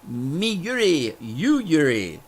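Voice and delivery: slow, drawn-out broken-English imitation; lightly voiced Russian guy. Storyteller mimicking a Russian drinker naming them both, lightly voiced. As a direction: stretch out each name, lightly imitating. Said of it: "would punch mine and say".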